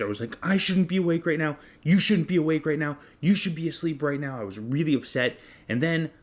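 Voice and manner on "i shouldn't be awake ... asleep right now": higher, louder exasperated rant; losing it. Retold or imitated. Exhausted dad losing his temper at his son, exasperated. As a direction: vent it, pitched up and loud. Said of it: "And then I went off the hinge".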